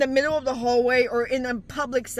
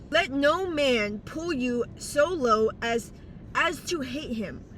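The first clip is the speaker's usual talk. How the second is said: slight lisp from a retainer; Invisalign lisp; 4 dB quieter, slower than usual. Real, not acted. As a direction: talk around an Invisalign tray. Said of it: "If you hear my lisp".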